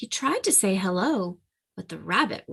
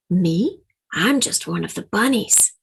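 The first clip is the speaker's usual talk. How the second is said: eager and louder, trying too hard; a little too loud; 5 dB louder than usual. Acted. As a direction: blurt it a bit too loud. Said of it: "a little too loudly".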